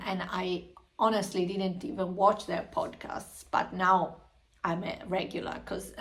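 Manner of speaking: talking with food in mouth; words round a mouthful; mouth full. Real, not acted. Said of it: "I've got something in my mouth".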